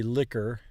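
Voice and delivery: "liquor" with QU as a plain K; English K sound. Shown as a demonstration. Learner explains English QU, K sound. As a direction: say "liquor" with a hard K, no W. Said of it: "just like a K".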